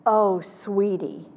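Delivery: "Oh, sweetie" slow, drawn out, sorry; empathetic "oh sweetie". Retold or imitated. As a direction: say it slowly, full of sympathy. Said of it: "and I said".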